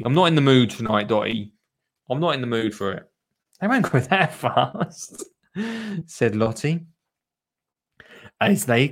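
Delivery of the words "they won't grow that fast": put-on higher child voice with a laugh; a hint of a child, breaking into laughter; lightly voiced child retort. Narrator rereads Lottie's line, lightly higher voice with laughter.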